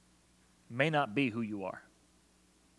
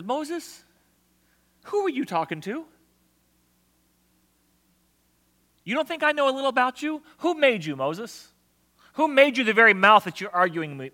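God replying; 12 semitones higher, 10 dB louder than usual. Acted. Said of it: "And God says".

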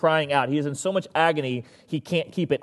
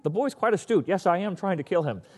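Doctor Evil; 2 semitones higher than usual. Retold or imitated. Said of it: "like, Doctor Evil moment".

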